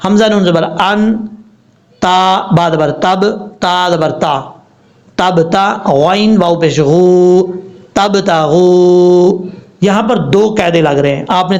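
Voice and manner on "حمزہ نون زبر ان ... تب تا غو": slow letter-by-letter spelling of تبتغو; teacher spelling out the word slowly for students. Shown as a demonstration. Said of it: "اب اس کے بعد جو لفظ ہے".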